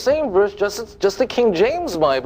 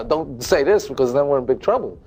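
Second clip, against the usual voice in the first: mock worried scholar; 6 semitones lower, faster than usual. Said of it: "the more honest Christians that are saying".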